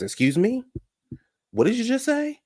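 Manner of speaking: high, rising offended question; mock affronted disbelief, pitch climbing steeply; acted indignation. Lisa confronting Kim over the husbands remark, indignant.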